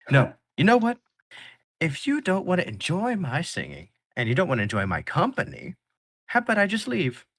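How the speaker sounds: high, loud offended big singer; singer's huffy voice. Acted. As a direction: play the wounded big man storming off, pitched high. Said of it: "You're making his voice?".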